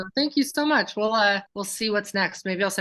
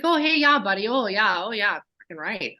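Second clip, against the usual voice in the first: put-on Canadian accent. Wife imitating her hockey-player husband, light Canadian accent. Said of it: "so he sounds Canadian".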